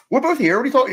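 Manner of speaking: high, loud imitation of a flustered character; mock exasperated outburst. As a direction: blurt it out as a comic impression.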